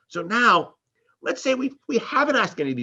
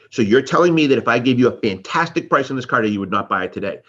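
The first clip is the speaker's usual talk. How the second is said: pushy salesman repeat; 4 semitones lower, 4 dB louder than usual. Acted. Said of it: "we might repeat it".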